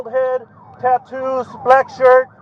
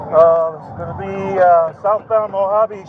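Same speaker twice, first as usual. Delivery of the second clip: crackly radio transmission; officer calling in over radio; police radio; 4 semitones lower, 4 dB quieter than usual. Real, not acted. Police radio pursuit call.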